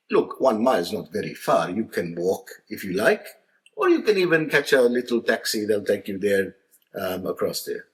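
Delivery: put-on light Maltese accent, easygoing; casual Maltese dad explaining. Maltese dad explaining the walk, lightly accented. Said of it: "He says".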